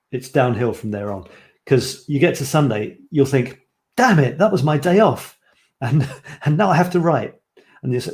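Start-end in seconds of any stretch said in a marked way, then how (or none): 3.9-7.3 higher-pitched, emphatic mild exasperation; mock exasperation. Imagined writer realises Sunday is gone, mock exasperated. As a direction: act out annoyance at a lost day off. Acts out regretful skipper's thought.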